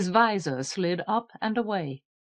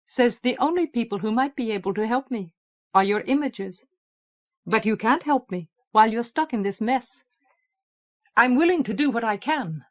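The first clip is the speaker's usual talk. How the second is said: alien voice. Acted. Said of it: "an alien voice, a tone with an incongruous resemblance to bird song".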